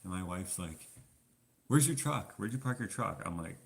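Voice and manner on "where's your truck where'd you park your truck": high-pitched mock worried question; lightly voiced wife demanding an answer; imitating wife. Wife in retold truck theft scene.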